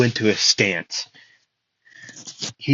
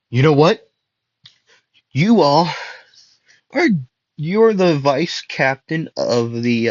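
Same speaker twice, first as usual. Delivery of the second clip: lightly voiced Asta; 4 semitones higher than usual. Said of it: "Asta would say".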